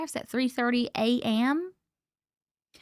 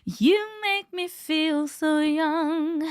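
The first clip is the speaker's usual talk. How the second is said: mock seductive line; 4 semitones higher, much slower than usual. Livestream chat, put-on sultry line.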